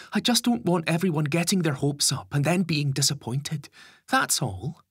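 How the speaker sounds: dry, sarcastic grumble. A narrator's reading. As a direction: say it with a sarcastic edge. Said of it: "Gary says sarcastically".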